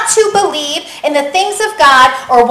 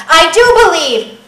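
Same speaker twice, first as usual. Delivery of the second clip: louder, emotional insistence; desperate plea; 3 semitones higher, 5 dB louder than usual. Acted. Father crying out to Jesus for his son, mildly desperate. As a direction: plead it with a touch of desperation. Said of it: "so much desperation".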